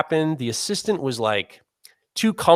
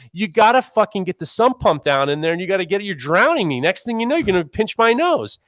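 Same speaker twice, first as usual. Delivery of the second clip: retold panicked plea; 5 semitones higher than usual. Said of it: "I'm like".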